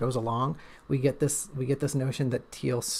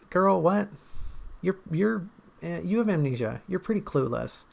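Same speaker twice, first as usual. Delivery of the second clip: incredulous; 5 semitones higher than usual. Real, not acted. Teasing her character.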